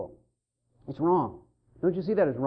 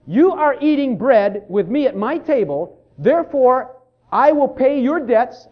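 solemn declaration; 4 dB louder than usual. Retold or imitated. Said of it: "what you are declaring is".

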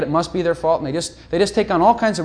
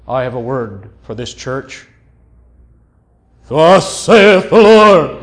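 slow, loud, sing-song prophet voice; mock holy prophecy; 4 semitones lower, 8 dB louder, slower than usual. Preacher parodying someone delivering a word, sing-song. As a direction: ham up a solemn prophetic word. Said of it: "they look usually so holy".

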